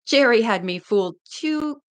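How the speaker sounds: steady read-aloud narration; story narration. A narrator's reading. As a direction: read the chapter to listeners. Reads the novel aloud.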